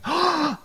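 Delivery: sharp, audible gasp; acted onlooker's gasp; shocked gasp. Somebody in the background reacting to change, shocked gasp. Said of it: "somebody in the background going".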